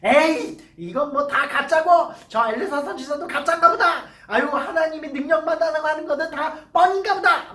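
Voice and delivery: mild mock anger with a laugh; the general scoffs that the prophet is a fraud; angry scoffing. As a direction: sneer as if it's all a fake. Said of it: "막 이러면서 화를 냈어요".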